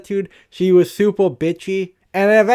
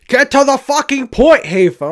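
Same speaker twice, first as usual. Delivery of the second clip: higher, louder mock scold at himself; self-scolding voice; 8 semitones higher, 4 dB louder than usual. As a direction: snap at yourself to hurry up.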